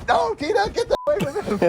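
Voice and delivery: high urgent plea to Tina; mock frantic warning. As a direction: warn the girl off, hammed up. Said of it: "I'm like".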